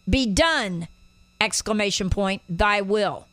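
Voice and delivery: firm punch on "done"; exclamatory BE DONE. Shown as a demonstration. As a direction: declare "Be done" as a command, pause, then "thy will".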